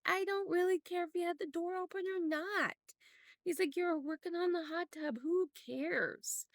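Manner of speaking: high, amused and easygoing; laughing boyfriend. Retold or imitated. Boyfriend laughing off the door worry, amused. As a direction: tell her it's nothing, laughing it off. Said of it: "he was laughing".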